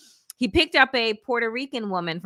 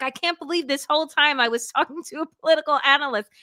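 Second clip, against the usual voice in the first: laughing disbelief; 5 semitones higher, much faster than usual. Retold or imitated.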